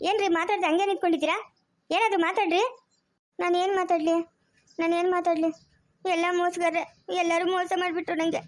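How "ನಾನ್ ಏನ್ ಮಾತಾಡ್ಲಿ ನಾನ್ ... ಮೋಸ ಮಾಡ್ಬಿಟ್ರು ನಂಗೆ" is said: on the verge of crying; tearful. Acted. Betrayed wife answering the officer's demand to speak, tearfully. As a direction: say it like a betrayed wife starting to weep. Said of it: "ಯಾಕೆ ಅಳ್ತಾ ಇದ್ಯಾ".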